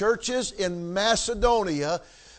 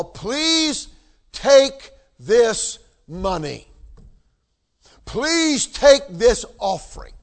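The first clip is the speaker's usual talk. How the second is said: loud, slow, pleading voice of the Macedonians; eager begging plea; 3 semitones higher, 5 dB louder, slower than usual. Retold or imitated. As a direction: beg Paul to take the money, loud and slow. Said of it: "were begging the Apostle Paul".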